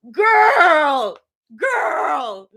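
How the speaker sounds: high, loud laughing yell. Real, not acted. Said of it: "I'm yelling".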